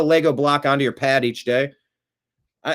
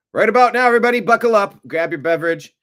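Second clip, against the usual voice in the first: much higher, louder showtime hype; announcer hype; 9 semitones higher, 6 dB louder, faster than usual. Acted. Host kicking off the program for viewers, loud announcer hype. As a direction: launch the show like a host revving up the crowd. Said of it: "show opening announcement".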